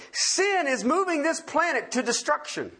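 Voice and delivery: firm, emphatic declaration; preacher driving the point home. Real, not acted. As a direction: state it emphatically, as settled fact. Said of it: "I can say this emphatically".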